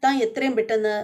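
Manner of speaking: a touch of angry rebuke; mild mock scolding. Family doctor scolding the duty doctor, mock angry. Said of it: "ദേഷ്യപ്പെടുകയാണ്".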